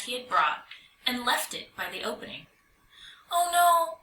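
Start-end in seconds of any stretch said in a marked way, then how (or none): 3.3-4.0 a higher, louder startled "oh no"; a little mouse caught off guard; mouse cries in dismay. A narrator's reading. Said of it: "Sam cried".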